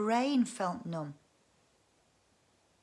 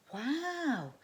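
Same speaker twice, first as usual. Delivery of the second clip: breathed; 7 semitones higher than usual. Acted. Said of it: "breathed Karen".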